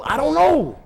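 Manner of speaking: high-pitched, drawn-up doubt; comic uncertainty. Acted. Preacher unsure what heaven offers, high comic doubt. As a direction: throw up your hands, voice pitched high.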